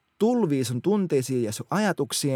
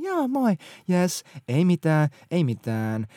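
fake smiling cheer; 2 semitones higher, slower than usual. Bitter friend hides anger behind a fake smile, forced cheer. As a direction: smile it away as if nothing is wrong. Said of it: "se vaan hymyilee".

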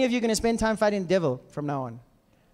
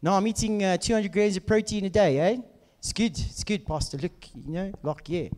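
casual Saffa bro, trailing off; broad South African accent; 4 semitones lower than usual. Retold or imitated. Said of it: "It's like".

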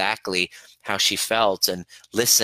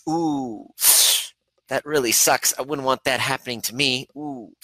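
pitying sympathy; 4 semitones higher than usual. Shown as a demonstration. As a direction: act the pitying onlooker. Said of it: "Sympathy is".

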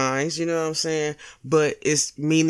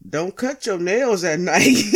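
holding back a laugh; 4 dB louder than usual. Shown as a demonstration. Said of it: "I couldn't even say the shit with a straight face".

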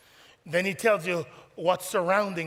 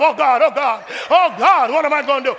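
laughing; 6 semitones higher, 10 dB louder than usual. Acted. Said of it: "you're going".

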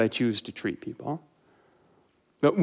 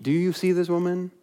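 softer repeat, only slightly raised; Jesus repeating question; 3 semitones higher, 4 dB quieter than usual. Retold or imitated. Jesus driving the point home to his host, a softer repeat. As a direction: ask it again, quieter and more settled.

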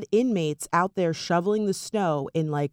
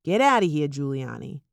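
put-on New York accent; 4 semitones lower than usual. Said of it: "had to do that in New York accent".

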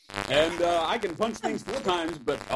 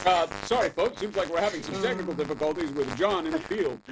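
news anchor voice; faster than usual. Pretend. News desk anchor bit.

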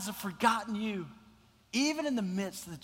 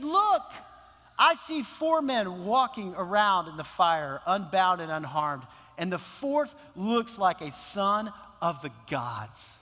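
amazed king; 3 dB louder, slower than usual. Acted. King amazed at four men.

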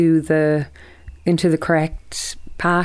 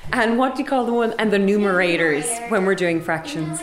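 put-on American accent, teacherly; lightly exaggerated American classroom accent. Shown as a demonstration. Teacher explains fractions to pupils in an American accent. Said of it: "Will you do my American accent?".

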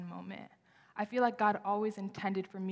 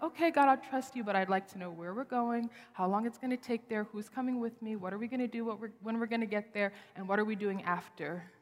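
anxious planner. Retold or imitated. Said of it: "I'm one of those people where I'm like".

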